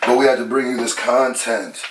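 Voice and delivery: distant voice from another room. Real, not acted. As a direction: sound like you're far off in the next room. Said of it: "Speaking from the other room".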